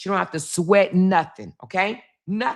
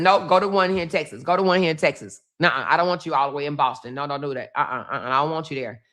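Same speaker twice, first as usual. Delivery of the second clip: quick, insistent mother's no; insistent refusal; 3 semitones lower, much faster than usual. Retold or imitated. Mother objecting to daughter's move to Boston, insistent refusal. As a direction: refuse firmly, dropping lower as it goes on.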